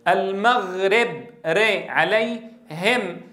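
"المغرب" drawn out with an open ri; very slow "ري"; kasra leaning to fatha. Shown as a demonstration. المعلم يقلد الكسرة المفتوحة في "المغرب". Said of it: "خلط صوتها بشيء من صوت الفتحة".

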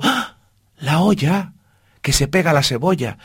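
sudden high yelp of alarm; alarmed cry. Acted. Mouse smells the burning onion and cries out in alarm. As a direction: panic as he remembers the pot.

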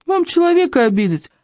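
mock wounded pleading, pitch up; hammed-up wounded suitor. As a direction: play the insulted lover, overdone. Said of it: "вошёл в роль униженного оскорблённого".

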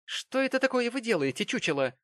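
very high, playful outrage; mock-shocked Mary. A narrator's reading. Mary mock-scolds Jonas for hugging her. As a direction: tease him as if scandalised.

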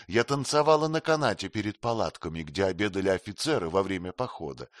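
lightly voiced queen, teasing and frank; Sitabhai, lightly voiced. (слегка изображённая царица, кокетливо)

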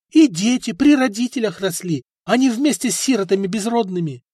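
wife argues back at prince; wife arguing. A narrator's reading. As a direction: defend the ancestors heatedly. Wife keeps arguing, high.

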